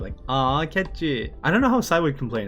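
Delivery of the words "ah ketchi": slow, drawn-out grumble; mildly annoyed. Acted. Sae grumbling at Hikaru, annoyed and slow. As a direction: complain he's being stingy. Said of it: "probably more annoyed".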